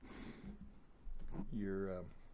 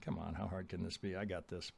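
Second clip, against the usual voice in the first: soft, dismissive imitation of cockiness; mock cockiness; 4 semitones lower, 15 dB quieter than usual. Smart client entering the market, imitated with offhand cockiness. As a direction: brush it off quietly, as if it's easy. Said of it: "come into the market with an attitude".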